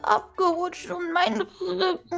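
put-on whimpering old granny voice; old lady voice. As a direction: wail about the back like a grandma. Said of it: "du hörst dich an wie eine alte Oma".

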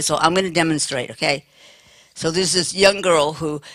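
normal talking voice

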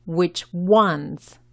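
"ones" ending in a voiced English z; English Z sound. Shown as a demonstration. Teacher models the plural, voiced z at the end of "ones". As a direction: finish "ones" with a buzzing z. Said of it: "con la Z del inglés".

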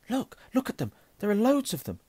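high, loud, insistent excitement; excited urging. Acted. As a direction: urge your friend to look, voice leaping up. Harry excitedly showing Ron the mirror.

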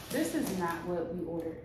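talking around retainers; slight lisp from retainers; wearing a retainer. Real, not acted. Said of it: "I got my retainers in".

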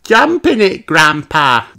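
high, loud urging cry; excited cry. Acted. Peppa urging Grandpa into the puddle, excited cry. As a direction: egg him on. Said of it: "cries Peppa".

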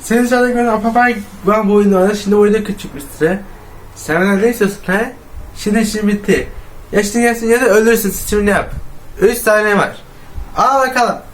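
loud threatening villain, counting down; menacing monster voice. Acted. Monster threatens the hiding player.

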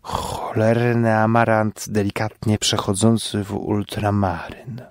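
slow, dreamy dim voice; slow simpleton voice. Acted. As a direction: drift through it like a dazed fool. Johnek voiced, slow other voice. (powolny, rozmarzony głos prostaczka)

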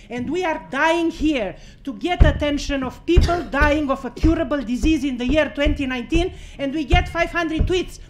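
loud, fast indignant outcry; real outrage at being ignored; outraged. Real, not acted. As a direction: rail at the room, outraged. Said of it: "I'm sorry I'm outraged".

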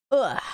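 short, falling exasperated ugh; grunted ugh. Real, not acted. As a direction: let out a quick grunt. Grunt during play.

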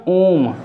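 womb said as "oom"; womb with silent b. Shown as a demonstration. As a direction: leave the b off womb. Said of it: "इसमें हमारा भी silent है". (womb में ब silent)

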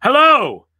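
high, loud hello with falling end; called-out greeting. A narrator's reading. Exile greeting the new arrival, loud high call. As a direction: holler it out excitedly. Saul hails the young man.

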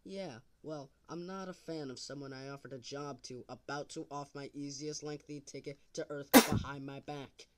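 loud, heated, accusing; overacted amateur dub. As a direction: bark it out, fed up. Angry accusation.

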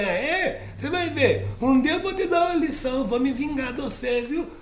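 very high little voice vowing revenge; a tiny ant swearing she'll get even; squeaky vengeful ant; high threatening ant. Acted.

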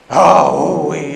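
loud roaring "aah-oh-oy"; bellowed monster cry. Acted. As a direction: roar like a scary demon. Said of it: "అని అరుస్తుంటాడు".

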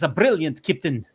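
lightly voiced Russian Chekhov accent; a hint of Chekhov's Russian accent, admiring. Host reading a Star Trek meme caption, lightly voiced Russian accent. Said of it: "You do a good Chekhov accent".

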